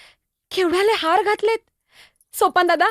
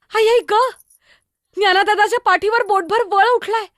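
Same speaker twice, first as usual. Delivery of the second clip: anguished cry; 4 semitones higher, 4 dB louder than usual. Acted. Brother whipped, welt seen.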